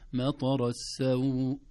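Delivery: السوء held only two beats; السوء with a brief vowel; short vowel. Shown as a demonstration. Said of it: "حركتين ما في إشكال".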